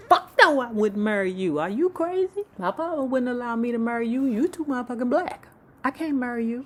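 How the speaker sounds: high, loud shrieking mock Janet; loud high outraged diva voice; Janet refusing.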